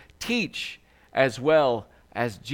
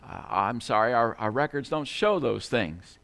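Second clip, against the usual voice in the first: lower, mildly abashed reply; sheepish; 5 semitones lower than usual. Acted. Telemarketer, taken aback, answering the rich man, sheepish. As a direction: back down a little, apologetic and hesitant. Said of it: "sheepishly said".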